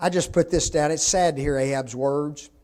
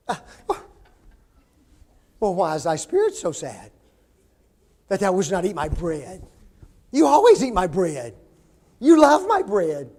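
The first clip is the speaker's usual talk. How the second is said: coaxing wife; 3 dB louder than usual. Acted. Preacher voices Jezebel coaxing Ahab.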